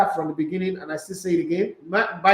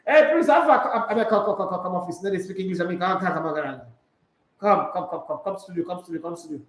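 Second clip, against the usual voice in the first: laughing banter. Real, not acted. Teasing a listener, laughing.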